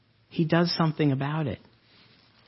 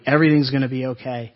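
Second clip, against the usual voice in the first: fast, louder, tossed-off reassurance; quick hollow platitude; 4 dB louder, faster than usual. Retold or imitated. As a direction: rattle it off like an empty phrase. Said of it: "We say those things".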